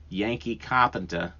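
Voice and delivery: a quick, hammed-up Boston accent on "carpenter", dropping the r as "cahpentah". Shown as a demonstration. Naming his favorite Yankee carpenter, in a mock Boston accent. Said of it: "I sounded like Edith Bunker".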